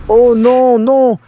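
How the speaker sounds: loud, high panicked no; alarmed cry. Acted. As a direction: shout it in sudden alarm. Tongue attack launched at her. (cri paniqué et fort)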